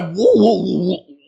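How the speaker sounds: mock bedroom shock climbing to a laughing shout; shocked man in bedroom. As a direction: act out being caught off guard and thrilled. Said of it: "She have you in that bedroom like".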